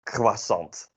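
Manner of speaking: croissant with a French start and a Dutch ending; half French, half Dutch croissant; Dutch-French in-between. Shown as a demonstration. Teacher giving the everyday Dutch way to say croissant. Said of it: "something in between".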